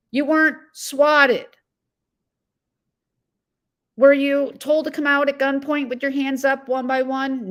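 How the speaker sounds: agitated. Real, not acted. Streamer scolding John over his swatting claim, agitated. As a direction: let the irritation boil over as you call him out. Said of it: "I'm a little agitated".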